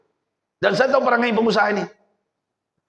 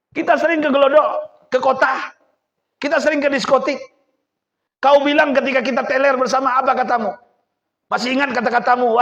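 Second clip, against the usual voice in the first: accusing shout; 5 semitones higher than usual. Acted. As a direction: rail at the old friend, voice raised. Young man accusing businessman.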